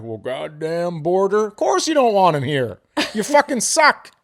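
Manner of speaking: building from a grumble to a high, loud jeer; mock angry rant. Host mocking kickers over the border, building angry rant. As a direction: heckle them, climbing to a high shout.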